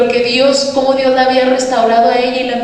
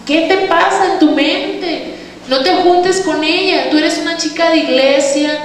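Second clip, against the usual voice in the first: mock scolding; 4 semitones higher than usual. Church member warning her off a friend, mock scolding. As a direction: imitate a disapproving church member.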